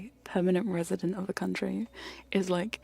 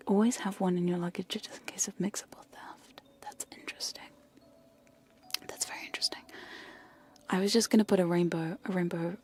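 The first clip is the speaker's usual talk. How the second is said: ASMR whisper. Acted. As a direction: whisper the story into the mic.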